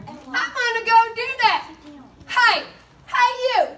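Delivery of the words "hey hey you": calling out. Acted. Calling kids to share gospel.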